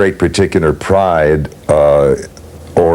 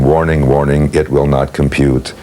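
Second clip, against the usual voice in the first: low-key Scourby imitation; 4 semitones lower than usual. Shown as a demonstration. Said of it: "doing low-key, not coloring the words".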